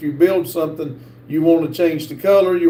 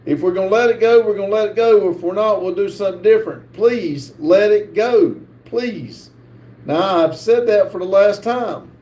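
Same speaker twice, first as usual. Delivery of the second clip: real exasperated raised voice, louder and higher; 4 semitones higher, 3 dB louder than usual. Real, not acted. Streamer answers a chatter who says he raised his voice, fed up and louder. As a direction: speak up, fed up and firm. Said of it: "why did you raise your voice with me now?".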